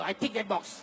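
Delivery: ordinary talk, nothing marked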